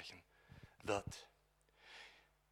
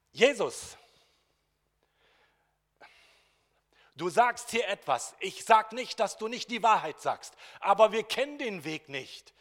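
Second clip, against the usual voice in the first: pleading Thomas; 8 semitones higher, 13 dB louder than usual. Acted.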